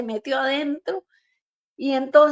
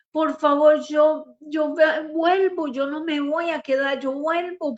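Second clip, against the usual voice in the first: retold pleading; 3 semitones higher than usual. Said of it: "yo le imploraba".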